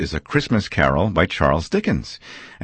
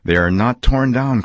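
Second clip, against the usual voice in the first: excited cry, a touch higher; cried out; 5 semitones higher, 3 dB louder than usual. Acted. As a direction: glad exclaiming Scrooge. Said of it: "cried Scrooge".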